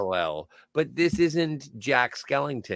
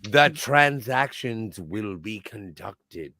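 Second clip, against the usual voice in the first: lower, slow, cold pronouncement; slow menacing villain; 5 semitones lower, slower than usual. Retold or imitated. Co-host mimicking the villain Olay, low and slow. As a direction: lay down the terms like a gangster.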